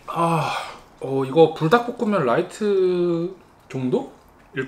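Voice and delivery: chewing while talking; speaking between bites; mouth full. Real, not acted. Seen 1: Chewing before; cheeks look full while speaking over the plate.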